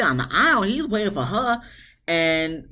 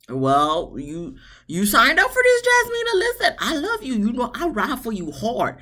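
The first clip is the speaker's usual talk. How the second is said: much higher, laughing tough love; sassy scolding; 6 semitones higher than usual. Pretend. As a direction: laugh while you set her straight. Talking straight to the bride.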